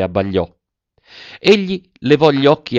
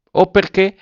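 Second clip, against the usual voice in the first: smiling; 9 semitones higher, 3 dB louder than usual. A narrator's reading. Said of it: "ancora sorridente".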